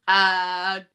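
high whooping cheer. Real, not acted. Drunk player cheers before acting, high whoop. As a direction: let out a tipsy whoop. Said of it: "I am very drunk".

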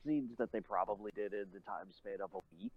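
muffled voice through a covered mic. Real, not acted. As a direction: sound muffled and far off. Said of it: "you sound muffled".

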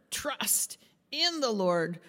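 slow "Trust in the Lord", weight on Trust and in; word-by-word emphasis. Shown as a demonstration. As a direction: stretch Trust, then hit in. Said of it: "emphasize each word".

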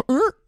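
short imitated dog noise; mock dog grunt; puppy's questioning grunt. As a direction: let out a brief puppy-like "er". Mimics the puppy's reaction.

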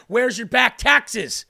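slow menacing agent. Retold or imitated.

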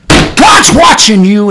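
slow booming warning; slow emphatic. Acted. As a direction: bring it back up to full voice, each word weighed. Preacher repeats warning aloud.

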